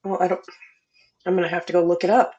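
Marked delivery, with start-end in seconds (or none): 0.0-0.4 talking while eating; words round a bite of food; mouth full. Real, not acted. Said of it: "Sorry, I'm eating".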